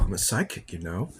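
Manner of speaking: words stretched by a yawn. Real, not acted. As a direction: speak through a yawn. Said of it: "Sorry for yawning".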